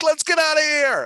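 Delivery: very high, loud, frightened cry. Showing how a character sounds while running away: scared voice. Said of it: "your character's really scared".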